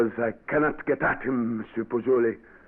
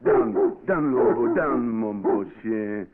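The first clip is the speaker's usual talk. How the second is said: commanding a dog; slower than usual. Acted. Governor commands his dog.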